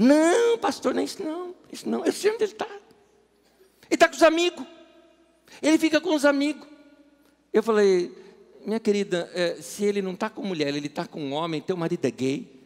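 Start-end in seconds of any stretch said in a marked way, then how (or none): 0.0-6.7 put-on Northeastern Brazilian woman's accent, pitched up. A pastor retells a woman's reply to his question about her husband, imitating her Northeastern Brazilian accent. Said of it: "ela tinha um sotaque nordestino tão gostoso".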